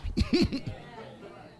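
joyful high laugh. Retold or imitated. Imitating joyful old believers.

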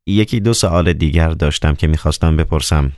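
a hint of a commanding Roman procurator; stern governor. Procurator orders his secret agent to bury the bodies, lightly commanding.

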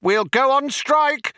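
high, vehement threat; yelling. A narrator's reading. Vroom Fondle threatens the programmers, yelling. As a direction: yell the threat at high pitch. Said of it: "yelled Vroom Fondle".

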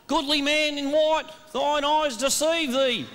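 put-on slow, lightly theatrical old English; Elizabethan verse. Shown as a demonstration. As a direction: recite it like mock Shakespeare. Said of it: "speak in Elizabethan verse".

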